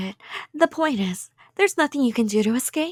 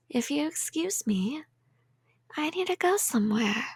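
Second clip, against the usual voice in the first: whisper; 8 dB quieter than usual. Acted. Yandere leaving the captive.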